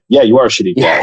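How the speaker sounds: flat, blunt verdict with no cushioning; just say it bluntly to his face; blunt put-down. Retold or imitated. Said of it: "there is a time for brutal honesty".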